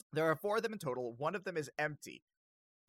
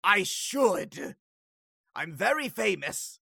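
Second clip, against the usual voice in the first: higher, louder pompous lich; affronted lich; 3 semitones higher, 7 dB louder, slower than usual. Acted. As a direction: insist on your fame, theatrically. Offended lich insists on fame.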